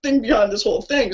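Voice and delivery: pouring out real feeling for the vets; emotional. Real, not acted. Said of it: "So I'm sorry to get emotional".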